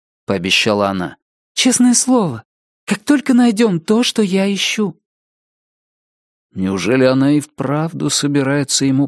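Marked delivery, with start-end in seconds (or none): 1.5-5.0 put-on high earnest girl's promise; Door's voice. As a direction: swear it like a young girl. Door promises Richard.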